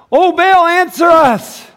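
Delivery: high, loud pleading call; hammed-up priests calling Baal; mock cry to Baal. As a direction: cry out to a false god.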